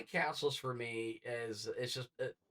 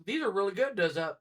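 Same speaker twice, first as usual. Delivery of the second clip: friend munching; 6 semitones higher, 3 dB louder than usual. Retold or imitated. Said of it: "He's like".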